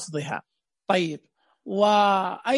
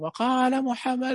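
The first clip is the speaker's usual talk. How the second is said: pupils repeating; 2 semitones higher, slower than usual. Shown as a demonstration. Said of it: "يقول".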